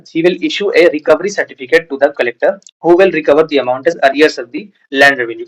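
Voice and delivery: dictating the law word by word; slow statute reading. Acted. Teacher reads the Gratuity Act to students, slow dictation. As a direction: read the legal text out slowly and deliberately.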